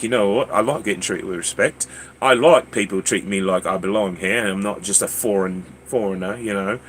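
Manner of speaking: put-on British accent. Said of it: "I kept the accent up".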